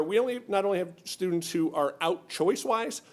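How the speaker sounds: ordinary talk, nothing marked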